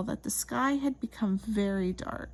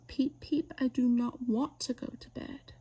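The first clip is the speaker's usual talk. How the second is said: petulant little chick whining; whiny chick voice. Acted. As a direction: whine it like a stubborn chick. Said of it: "whine harder and harder".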